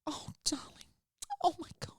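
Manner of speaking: high, soft cooing comfort; mock tender teacher voice; soothing teacher. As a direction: coo over the sick child, softly. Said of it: "She was like".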